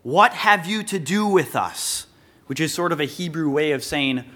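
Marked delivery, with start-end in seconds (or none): 0.0-2.1 slow, higher-pitched mild outcry; mild crying out. Acted. Preacher voicing the demon confronting Jesus, mildly crying out. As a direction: cry it out slowly, with restraint. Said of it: "cries out".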